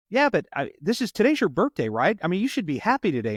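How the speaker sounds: retold cheering-up, pitch lifted; coaxing cop. Cop to birthday girl who should be happy, coaxing.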